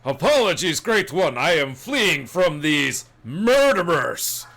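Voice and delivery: pleading loud cry. Acted. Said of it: "he says".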